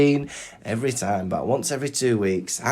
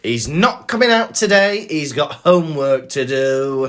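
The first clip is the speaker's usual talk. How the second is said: stern parent; 3 semitones higher, 4 dB louder than usual. Retold or imitated. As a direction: play a strict dad turning the kid's friend away. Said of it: "some people's parents were stern".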